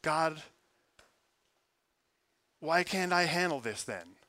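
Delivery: a desperate why said straight up to heaven; pleading complaint. Retold or imitated. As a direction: ask God why, exasperated and pleading. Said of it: "But it's just".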